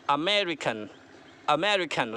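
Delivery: अमेरिकन with मे drawn out; stress on ME. Shown as a demonstration. Teacher models for repeat after me, long मे in अमेरिकन. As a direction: lengthen मे in अमेरिकन, let the rest fall. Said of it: "मैं पर होना चाहिए".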